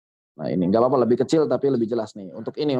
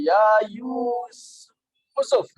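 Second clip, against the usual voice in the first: calling out; 8 semitones higher, 3 dB louder, much slower than usual. Shown as a demonstration. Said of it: "manggil Yusuf dari Bali".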